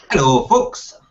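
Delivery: faintly Scottish greeting; half-hearted go at a Scottish accent; attempted Scottish accent. Host reading out Feral Scotsman's comment, lightly attempted Scottish accent. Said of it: "in a kind of Scottish accent".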